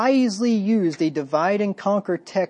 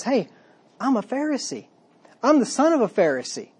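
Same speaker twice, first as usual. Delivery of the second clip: mock call across the council, higher pitch; 6 semitones higher than usual. Paul calling out to the council, a mock cry. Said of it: "he yells out".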